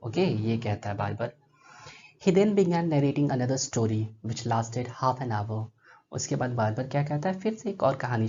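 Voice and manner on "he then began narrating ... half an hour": slow narration read aloud; measured read-aloud narration; story reading. A narrator's reading. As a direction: read it out slowly to the class.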